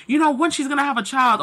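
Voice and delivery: quick, snide mimicry of a gossiping neighbour; lightly mocked gossip voice; mocking gossip. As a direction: rattle it off like a nosy busybody. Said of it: "people who may be mocking you".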